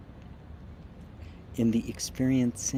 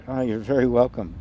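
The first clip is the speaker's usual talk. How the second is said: ordinary talk, nothing marked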